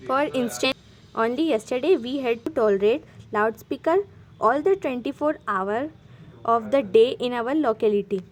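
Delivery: slow, careful dictation pace; slow read-aloud. Shown as a demonstration. Teacher reading the sample letter to students, slow dictation. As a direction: read each English word out slowly for the class.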